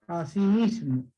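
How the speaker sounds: así mismo said slowly, stressed on mis-; slow down así mismo, keeping only the stress of mismo. Shown as a demonstration. Teacher showing which accent survives in así mismo, stress on mis-. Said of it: "solamente se conserva el acento de mismo".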